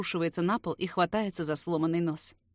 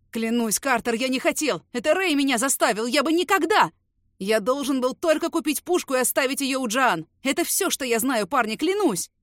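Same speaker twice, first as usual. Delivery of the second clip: louder, higher, desperate choking pleading; terrified snitch begging, near sobbing; sobbing plea; 4 semitones higher, 7 dB louder than usual. Acted. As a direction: beg for your life through tears. Beaten man begging.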